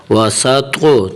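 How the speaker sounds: heavy "تو" with a slight echoing bounce; "تو" said full-mouthed with a small bounce; qalqalah. Shown as a demonstration. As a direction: bounce the thick "تو" in "وا سا تو" lightly. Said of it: "توا کو تھوڑا سا قلقلہ دینا".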